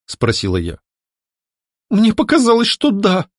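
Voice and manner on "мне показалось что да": high, near-tearful voice; girl close to crying, high and trembling; on the verge of tears. A narrator's reading. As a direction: hold back the tears. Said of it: "чуть не плача произнесла девушка".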